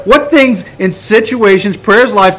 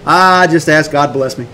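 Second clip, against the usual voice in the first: lower, noncommittal answer; vague reply; 3 semitones lower than usual. Acted. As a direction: answer evasively, dropping the pitch. Acted vague reply to prayer offer.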